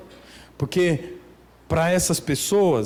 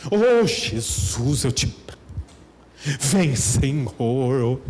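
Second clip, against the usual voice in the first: mock rushed prayer; 3 semitones lower than usual. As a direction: parody a self-centred prayer. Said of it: "você fala assim com Deus".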